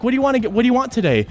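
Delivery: high-pitched counter-worker question; polite server. Acted. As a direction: lightly voice a server taking an order. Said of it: "she's like".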